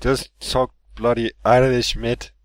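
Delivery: slow, badly faked Irish accent; put-on Irish accent, slowed right down; accent attempt. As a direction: have a drawn-out go at an Irish accent. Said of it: "You sounded like".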